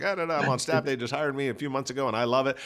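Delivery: high, bubbly gushing voice; eager young staffer. Retold or imitated. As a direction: gush like a thrilled new hire. Retells eager new staffer.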